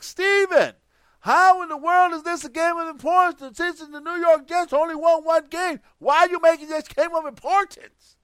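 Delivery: mock Jamaican accent. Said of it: "your accent before when you talk in accent ... was Jamaican".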